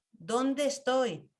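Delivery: slow, drawn-out ¿Dónde estoy?, lingering on dónde; unhurried self-questioning; slow reflective question. Shown as a demonstration. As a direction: ask yourself slowly, turning inward.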